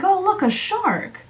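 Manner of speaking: imitating stepdad's high, drawn-out call; mock stepdad call, pitched well up, slow; stepdad pointing out. Stepdad pointing at the water, imitated high-pitched call-out. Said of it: "he says it kinda like that".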